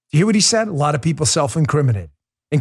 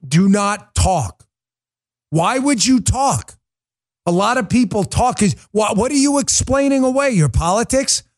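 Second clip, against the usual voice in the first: angry; 5 semitones higher than usual. Real, not acted. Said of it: "I'm just angry".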